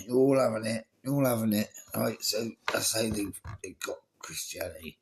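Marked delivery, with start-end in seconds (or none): 0.1-1.7 louder, hammed-up tyrant yell; Constantine mock-roaring at the crowd; mock threatening Constantine. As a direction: bark it like a brutal emperor, half joking. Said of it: "Constantine's like".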